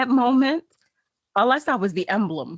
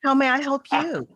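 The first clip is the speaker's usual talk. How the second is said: indignant retort; 2 semitones higher than usual. Retold or imitated. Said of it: "I was indignant".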